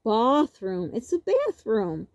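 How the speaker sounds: playfully puzzled, teasing back; mock confusion at a word; mock bafflement. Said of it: "And I would say".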